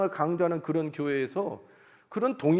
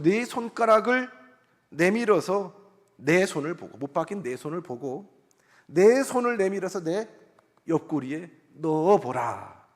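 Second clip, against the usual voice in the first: slow, solemn voicing of Jesus; lightly voiced Jesus, slow and commanding; a hint of Jesus speaking, slow and solemn. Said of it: "예수님이 이번에는 이렇게 말씀하시죠".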